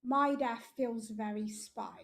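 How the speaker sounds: spy said slowly and clearly for a listener who missed it; slow clear repeat. Shown as a demonstration. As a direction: repeat it slowly so they catch it.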